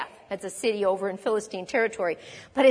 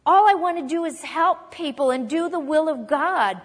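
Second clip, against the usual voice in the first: panicked worrying; 4 semitones higher than usual. Pretend. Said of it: "of David talking like this".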